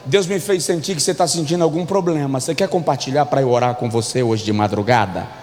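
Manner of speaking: low, confidential mock-pious gossip; fofoqueiro intercessor. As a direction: play a falsely caring prayer partner, pitched low. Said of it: "o que é um fofoqueiro intercessor?". (fofoqueiro fingindo intercessão, em voz grave)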